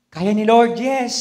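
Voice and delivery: confident believer. Pretend. Voicing confident faith.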